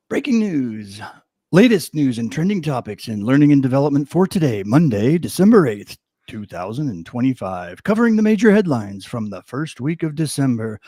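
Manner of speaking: news anchor voice. Shown as a demonstration. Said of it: "my anchor voice".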